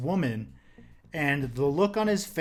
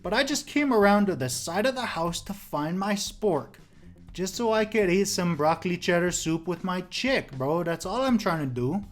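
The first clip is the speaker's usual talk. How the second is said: laid-back squatter; 4 semitones higher than usual. Retold or imitated. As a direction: drag it out like a chill burnout. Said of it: "The guy's like".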